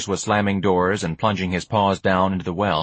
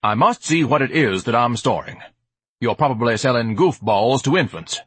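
mildly higher, fussy haughtiness; lightly theatrical suspicion; pompous Ignatius, suspicious; 3 semitones higher than usual. Acted. Ignatius inspects the package, haughty suspicion.

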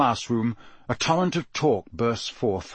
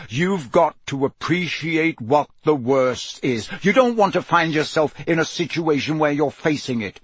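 gruff Moody; 4 semitones higher than usual. Acted. Moody warns the class of the worst, gruffly. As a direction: press the danger on the pupils.

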